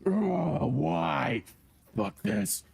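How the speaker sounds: groaning, drawn-out "why" cry; half-hearted scream of a villain just hit; mock scream. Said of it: "you hear him just scream out".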